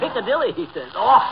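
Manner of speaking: amused. Acted. Laughing over doctor's pun.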